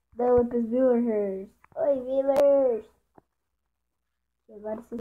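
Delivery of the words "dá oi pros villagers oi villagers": louder, slow, sing-song hello; drawn-out greeting. Acted. To the villagers, a loud, slow playful hello.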